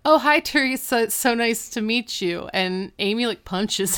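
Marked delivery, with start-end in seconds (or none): 0.0-2.5 high, loud mock welcome; hearty greeting. Dad greets Lauren by the wrong name, loud hearty welcome. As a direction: imitate an over-eager dad greeting a guest.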